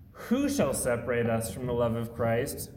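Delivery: worried, anxious question; concerned. Shown as a demonstration. Preacher showing the verse read in worry, concerned. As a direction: ask it as if threats are pulling us away. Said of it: "The first one seems to approach this in concern".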